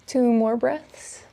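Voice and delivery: unhurried breath-count pacing; guided yoga breathing. Acted. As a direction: guide them calmly through each breath, leaving space. Leads slow yoga breathing.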